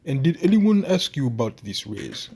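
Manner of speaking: attempted Russian accent. Game master trying out a Russian character, Russian accent. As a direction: have a shaky go at a Russian accent. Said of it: "I can't do a Russian".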